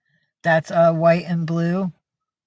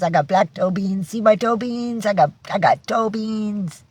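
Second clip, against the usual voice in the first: voicing the dog; 4 semitones higher than usual. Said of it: "He says".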